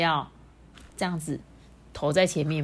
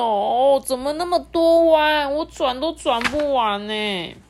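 dizzy engine; 8 semitones higher, 6 dB louder, slower than usual. Acted. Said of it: "只觉得头好晕哦".

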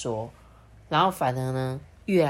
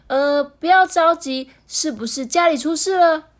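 high, concerned auntie voice; comforting auntie; 11 semitones higher, 7 dB louder than usual. A narrator's reading. Doctor auntie asks if something happened at home, comforting. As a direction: soothe the child while probing what happened. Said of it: "就安慰他说".

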